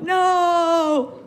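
loud, high mock disbelief. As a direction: blurt out a stunned no. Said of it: "You're like".

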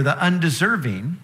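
emphasis on "undeserving", pitch swooping on the word; stress on undeserving. Real, not acted. Preacher pointing out what to emphasize, stress on "undeserving". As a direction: lean on "undeserving" as a key point. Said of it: "two things to emphasize here".

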